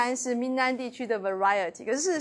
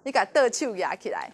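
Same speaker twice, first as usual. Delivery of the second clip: Taiwanese Hokkien; 4 semitones lower than usual. Shown as a demonstration. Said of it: "就叫台湾小孩跟那个广东小孩说".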